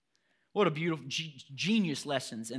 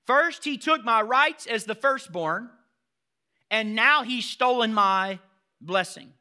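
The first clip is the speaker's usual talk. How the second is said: Esau's bitter complaint; 7 semitones higher, 10 dB louder, slower than usual. Acted. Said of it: "Watch what he says next".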